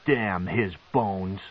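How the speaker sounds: slow, bitter spit; spat out. Acted. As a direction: spit the curse slowly. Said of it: "Masoge spat".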